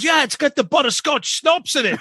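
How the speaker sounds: very high-pitched Aussie caricature; exaggerated Aussie impression; cartoonish Australian drunk. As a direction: imitate an eager drunk Australian. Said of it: "he'd always talk like this".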